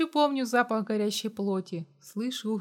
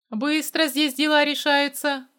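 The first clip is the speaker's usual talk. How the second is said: louder smirking remark; 5 semitones higher, 6 dB louder than usual. A narrator's reading. Mercenary smirks at the girl, mock amused. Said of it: "усмехнулся я".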